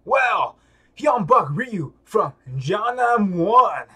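announcer result call. Acted. Announcing the winner to the crowd, loud and excited. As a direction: proclaim the winner.

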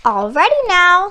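high, loud and bright; bright announcement. A narrator's reading. Miss Stork calling the fox to dinner, bright and loud. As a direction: sing out that dinner is ready. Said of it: "said Miss Stork brightly".

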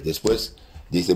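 ordinary talk, nothing marked

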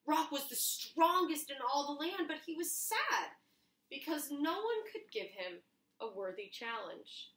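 lively read-aloud storyteller voice; storybook narration. A narrator's reading. Children's librarian reading the picture book to young friends, storytelling. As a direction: tell it like a bedtime adventure for kids.

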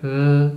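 short closed-mouth grunt. Acted. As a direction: imitate a wordless "mm" grunt. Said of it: "Grugnisce e comunica a versi".

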